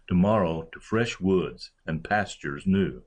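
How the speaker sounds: "fresh" stressed in place of "to". Shown as a demonstration. Lecturer reading Milton's line against strict iambic meter, stress on "fresh". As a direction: read the verse line leaning on "fresh". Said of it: "but instead I stressed fresh".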